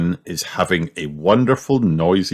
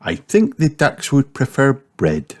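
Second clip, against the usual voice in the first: higher, lightly voiced mum; smiling Mummy Pig; 7 semitones higher than usual. A narrator's reading. Mum gently correcting a child, smiling higher voice. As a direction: correct kindly through a smile. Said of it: "smiles Mummy Pig".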